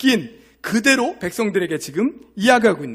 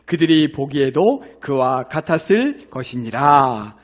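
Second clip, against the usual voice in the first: slow, solemn scripture read; 2 semitones lower, slower than usual. Acted. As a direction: read each verse slowly, like from the pulpit. Reads scripture aloud to congregation.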